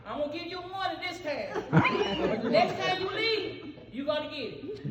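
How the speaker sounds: a touch of stern father, broken by laughs; stern dad warning. Retold or imitated. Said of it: "my daddy said".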